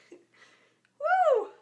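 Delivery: high, loud teary laugh-woo; laughing through tears. Real, not acted. Host laughing off her tears in front of viewers. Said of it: "I told you I'm gonna start crying".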